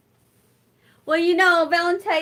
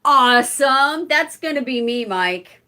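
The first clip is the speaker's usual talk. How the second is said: excited; 3 semitones higher, 8 dB louder than usual. Real, not acted. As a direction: relish the word. Reacts to viewer comment.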